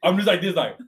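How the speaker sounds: can't stop laughing mid-story. Real, not acted. Telling friends about the fork guy, laughing. Laughing while retelling staring.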